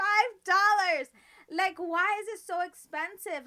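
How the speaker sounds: high, loud exclamation; loud outrage. Real, not acted. Host protesting the show's toy prices, loud outrage. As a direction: blast out the price in disbelief.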